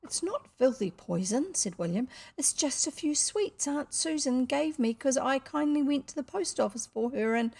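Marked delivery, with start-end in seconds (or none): 0.1-1.6 put-on slightly higher boy's voice; protesting boy. Son defending his sweets to father, mildly protesting. 2.4-7.5 put-on slightly higher boy's voice; protesting boy. Son defending his sweets to father, mildly protesting.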